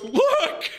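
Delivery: very high mock shout; imitated warning cry. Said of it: "He goes".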